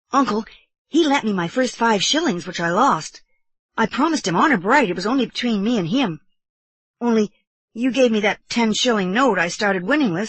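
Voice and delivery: put-on earnest boy nephew. Boy confiding in his uncle, earnest.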